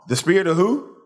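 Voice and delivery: preacher urging a stronger reply. Shown as a demonstration. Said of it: "That's better".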